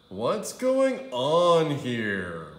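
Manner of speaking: slow, loud stern principal. A narrator's reading. Principal barging in, stern slow demand. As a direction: demand it with authority.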